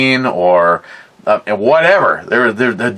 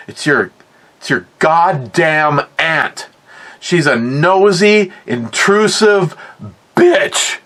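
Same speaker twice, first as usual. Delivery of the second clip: slow, climbing into a much higher, mock-outraged pitch on bitch; fuming grandpa; 5 semitones higher than usual. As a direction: spit out the insult about the aunt. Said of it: "He goes".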